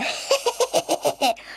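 a high, mocking cackle; a monkey snickering at the cub; sly monkey cackle. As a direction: laugh at your own trick. Monkey laughs at trick.

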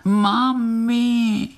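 very high, thin wail for mami; tiny crying voice. A narrator's reading. Unseen little creature wails for its mother under the stone, very high. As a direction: cry out faintly like a lost little one. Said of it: "jako by někdo křičel".

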